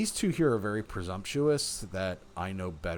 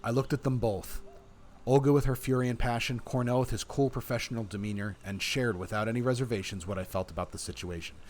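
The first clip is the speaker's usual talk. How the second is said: measured, expressive read-aloud; story narration; 2 semitones higher, 4 dB louder than usual. A narrator's reading. Player reading the game's story to viewers, story narration. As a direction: narrate it like an audiobook.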